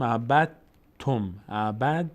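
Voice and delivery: عبد تم said "abat-tum", d merged into t; dal not pronounced. Shown as a demonstration. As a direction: stop the tongue on a doubled t in عبد تم. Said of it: "ما الان دال رو تلفظ نمی کنیم".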